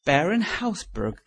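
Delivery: loud, slow shocked cry. A narrator's reading. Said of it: "cried Hughie".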